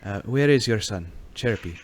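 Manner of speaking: put-on lightly accented formal figure; Giuseppe. Asking the mother for her son, lightly voiced stranger. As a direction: ask firmly in a put-on accent. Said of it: "Giuseppe says".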